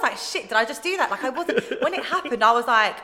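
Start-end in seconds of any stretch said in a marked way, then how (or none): 0.2-1.1 higher, louder, shocked; shocked at herself. Retold or imitated. Recalling doing the accent on stage, shocked at herself. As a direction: gasp at what you just did.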